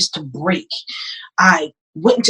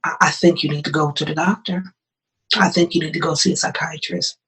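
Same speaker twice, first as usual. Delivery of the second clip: gentle husband; 3 semitones lower, 6 dB quieter than usual. Retold or imitated. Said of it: "He said".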